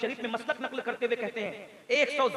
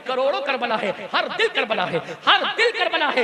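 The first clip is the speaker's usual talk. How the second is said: forceful, driving Urdu preaching; impassioned preacher's oratory; fiery sermon; 3 semitones higher, 5 dB louder than usual. Real, not acted. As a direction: exhort the crowd in ringing phrases.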